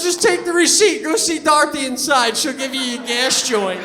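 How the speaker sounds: imitated eager attendant, high and loud at first; excited attendant. Gas attendant telling a customer about a freebie, imitated excitement. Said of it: "and he's excited".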